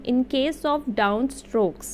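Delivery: very slow, deliberate dictation pace; careful classroom reading of a rule; slow read-aloud. Shown as a demonstration. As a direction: read it out word by word, slowly. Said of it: "मैं read out कर देती हूँ".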